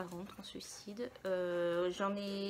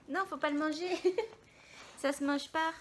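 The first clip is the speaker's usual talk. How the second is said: raised voice; 6 semitones higher, 5 dB louder than usual. Real, not acted. Telling someone not to eat it.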